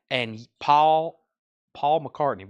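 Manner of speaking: Paul drawn out in a light Southern accent; a hint of a Southern US accent on the name. Real, not acted. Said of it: "my southern accent really came out on that".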